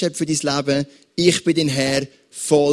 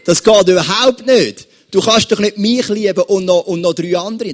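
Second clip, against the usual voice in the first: indignant outburst; 3 semitones higher than usual. Retold or imitated. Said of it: "Der Mann würde sagen".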